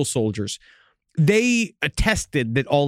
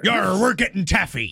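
hammed-up pirate with a growly "yar"; jokey pirate crewman; 2 semitones higher than usual. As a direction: play a pirate delighted about candy.

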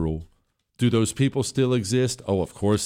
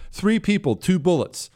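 mock quoting a threat; 9 semitones higher than usual. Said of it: "this is the Gilbert family".

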